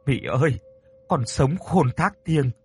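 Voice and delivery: a mild, earnest prayer to a spirit; a light touch of a praying old mother; pleading prayer. Acted. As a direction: beg the ghost for forgiveness, lightly voiced. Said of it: "chắp tay khấn vái".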